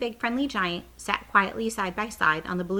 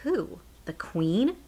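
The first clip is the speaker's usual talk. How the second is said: aghast; much slower than usual. Acted. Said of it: "Sophie cried, aghast".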